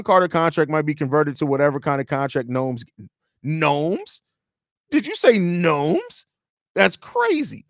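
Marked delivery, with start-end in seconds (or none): 3.4-6.3 slow, rising incredulous question; slow disbelief. Real, not acted. Reading chat's odd word, slow incredulous question. 6.7-7.6 high, bursting "That's crazy."; amused surprise. Real, not acted. To chat after the gnomes typo, high amused surprise.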